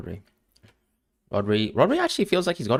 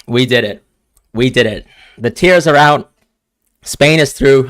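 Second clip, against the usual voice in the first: louder, elated; loud, happy cheering; joyful celebration; 3 semitones higher, 9 dB louder than usual. Real, not acted. Celebrating the win.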